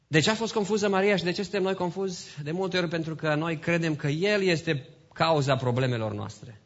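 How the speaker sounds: ordinary delivery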